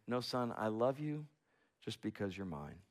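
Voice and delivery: very soft, hushed fatherly voice; tender whisper. Acted. Father whispering to his sleeping son, hushed. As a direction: breathe it into a sleeping child's ear. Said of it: "whispers into his son's ear".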